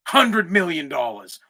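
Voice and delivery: slow, low and measured; incredulous emphasis. Real, not acted. Podcaster baffled by critics of the deal, slow incredulous emphasis. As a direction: let the sum sink in, word by word. Incredulous repeat after pause.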